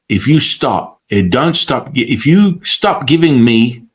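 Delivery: lightly voiced threat, sinking low by the end; a hint of a dark entity's threat; deep menacing voice. The entity threatening the teacher, mildly menacing deep voice. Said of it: "I've got a very deep voice saying".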